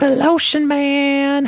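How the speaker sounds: put-on slow, leering old man voice; creepy old man voice. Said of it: "creepy old man from Family Guy".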